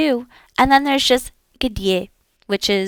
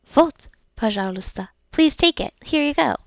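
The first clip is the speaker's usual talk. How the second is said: waitress handing a drink; 4 semitones higher than usual. Shown as a demonstration.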